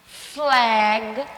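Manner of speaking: Flag said with an open English vowel, /flɛɡ/; English word. Shown as a demonstration. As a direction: model the English Flag for the class. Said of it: "flag é a bandeira".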